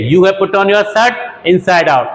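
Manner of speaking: slow, deliberate teacher read; slow example sentence for learners; slow model sentence. Shown as a demonstration. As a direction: dictate each word slowly. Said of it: "आपने shirt उल्टी पहन रखी है".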